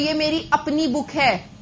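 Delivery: अपनी drawn out slowly for emphasis; stress on अपनी. Shown as a demonstration. Teacher giving an example of an emphasizing adjective, stress on अपनी. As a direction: lean slowly on the word अपनी. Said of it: "जोर डाल के बोल रहे हैं ना".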